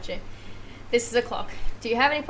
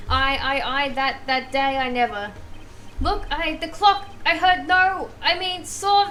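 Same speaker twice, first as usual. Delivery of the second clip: flustered witness; slower than usual. Acted. Cornered witness stammers under questioning.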